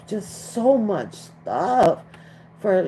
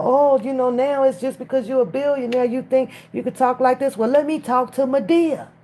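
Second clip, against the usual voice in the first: mocking Monique; 6 semitones higher than usual. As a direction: play her as huffy and offended, a bit higher. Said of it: "I heard Monique still".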